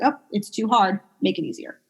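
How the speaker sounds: level-headed reasoning, easing off at the end; calm. Retold or imitated. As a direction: talk yourself down steadily. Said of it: "Be like".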